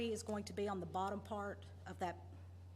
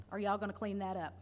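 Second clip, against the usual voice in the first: laughing; faster than usual. Real, not acted. Laughing through a pointed question.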